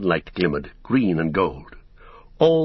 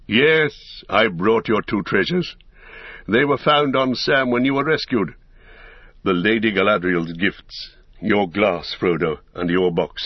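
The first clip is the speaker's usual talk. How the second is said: lightly voiced wise wizard, measured and assured; a touch of stately proclamation; Gandalf.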